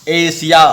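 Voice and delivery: एशिया with the S made against the palate; palatal S. Shown as a demonstration. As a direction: say एशिया with the tongue touching the palate. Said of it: "जीभ को तालु में सटा करके".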